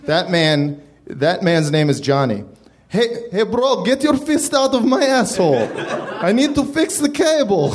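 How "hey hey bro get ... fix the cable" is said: higher, protesting voice; indignant cable guy. Acted. Leonard protests to Johnny mid-repair, higher indignant voice. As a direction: whine it, a touch higher.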